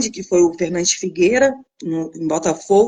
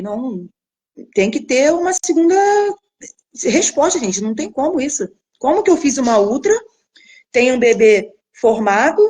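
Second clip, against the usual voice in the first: disbelieving protest; 3 semitones higher than usual. Retold or imitated. Retelling refusing the diagnosis.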